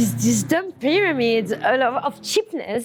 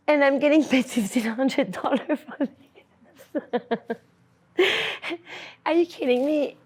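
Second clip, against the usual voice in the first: laughing disbelief; 3 semitones higher than usual. Real, not acted.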